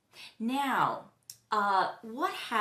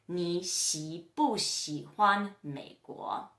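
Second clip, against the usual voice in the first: slow, measured Mandarin example; slow model question; 2 semitones lower, much slower than usual. Shown as a demonstration. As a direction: separate the syllables for learners. Teacher models the shortened question pattern.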